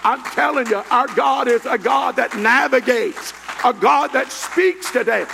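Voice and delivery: forceful Pentecostal preacher delivery; fervent preaching. Real, not acted. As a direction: preach it out with mounting fervour.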